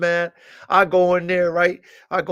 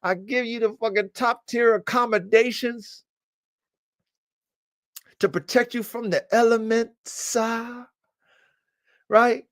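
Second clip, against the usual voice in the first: scolding the dog; 6 semitones higher than usual. Retold or imitated.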